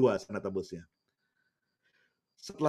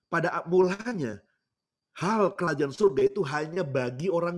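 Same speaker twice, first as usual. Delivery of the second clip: raised, emphatic preacher's delivery; impassioned preaching; 5 semitones higher than usual. Acted. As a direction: proclaim it to the congregation with rising force.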